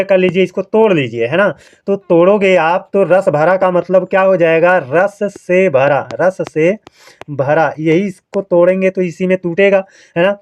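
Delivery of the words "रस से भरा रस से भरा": slow word-splitting. Shown as a demonstration. Splitting the compound for students.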